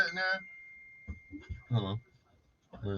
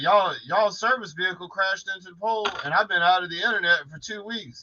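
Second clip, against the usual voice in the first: higher-pitched caller with a complaint; imitated complaining caller; 4 semitones higher than usual. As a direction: play an upset customer phoning in. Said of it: "Somebody will call up and they be like".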